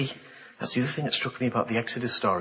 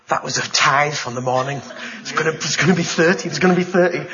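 eager hope; 5 dB louder than usual. Retold or imitated. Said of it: "on the night I thought".

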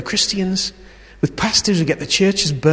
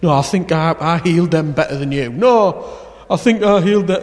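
mock squabble; 2 semitones higher than usual. Disciples arguing who was best.

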